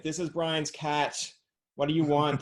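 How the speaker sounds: a hint of a cat answering the phone. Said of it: "that's my cat voice".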